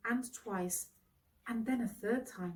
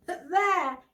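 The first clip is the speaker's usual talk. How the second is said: big, booming jovial host, pitched higher and louder; hearty knight; 9 semitones higher, 8 dB louder than usual. Acted. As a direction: boom it out like a delighted old lord. Bertilac's hearty greeting after a laugh.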